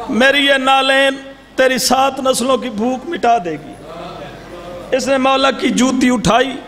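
steady preacher's narration with voiced figures; majlis storytelling. A zakir narrating the Imam's sandal story, measured preaching. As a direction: tell the tale to the mourners.

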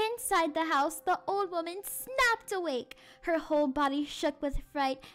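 measured, suspenseful storytelling; spooky story narration. A narrator's reading. Teacher reads the eerie midnight part to class, suspenseful storytelling. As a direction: build the midnight suspense for children.

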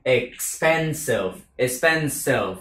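expensive with the final v dropped, Vietnamese way; Vietnamese-style expensive. Shown as a demonstration. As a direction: expensive said as ekspensi, no v at the end. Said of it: "Đừng nói expensive".

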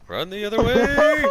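high, slow urgent yell; shouting. Real, not acted. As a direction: call out the warning hard. Urgent call to teammate.

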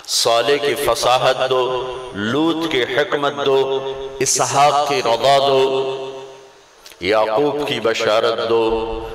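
slow, measured litany of gifts, partly sung; preaching litany. Acted. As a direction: roll out each line like a chanted list. Long litany of prophets' gifts.

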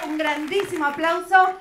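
ordinary delivery

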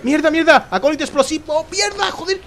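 high-pitched panicked cursing; panicked yelling. Real, not acted. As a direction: yelp it out in alarm. Sudden danger in the game.

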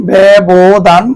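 ব্যবধান sounded out as "bæ-bo-dhan"; teacher's careful ব্যবধান; model pronunciation. Shown as a demonstration. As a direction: draw out ব্যবধান with an open æ first. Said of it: "মৌলিক স্বরের মতন".

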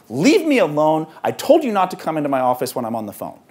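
loud, irritated brush-off, then rushed; angry snap. Acted. Father on the phone snapping at his son, angry. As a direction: snap at the kid to go away.

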